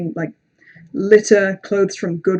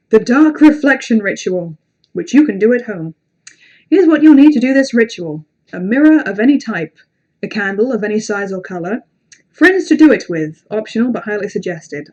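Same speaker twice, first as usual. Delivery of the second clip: deliberate, projected read-aloud; storyteller setting out a spooky ritual; creepy story reading; 5 dB louder than usual. A narrator's reading. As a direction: read out ritual instructions to an audience. Reads ritual instructions aloud.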